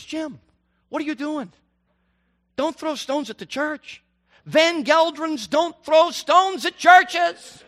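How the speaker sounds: put-on a dad scolding his boy in the parking lot; father calling out his son, slow and stern.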